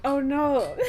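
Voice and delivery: playful mock shock; mock dismay. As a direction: imitate your younger, easily scandalised self. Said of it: "so I was like".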